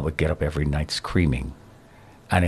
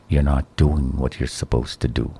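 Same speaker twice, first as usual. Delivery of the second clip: a low, heavy inner voice; lightly voiced accusing voice in the head; voice in his nightmares; 5 semitones lower than usual. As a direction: play the accusing voice from his nightmares, a little lower. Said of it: "this is how it would sound".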